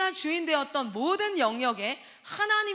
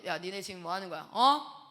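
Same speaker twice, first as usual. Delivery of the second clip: retold scolding. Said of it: "막 이렇게 화를 냈었거든요".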